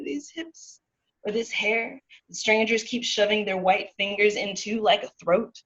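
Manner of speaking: rhythmic, driving slam-poetry delivery; spoken-word poem. Acted. Poet performing an ode to merengue for listeners, spoken-word poem. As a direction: punch out the images in measured, incantatory phrases.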